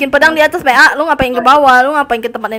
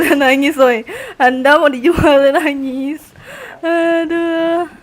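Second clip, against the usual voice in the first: ordinary delivery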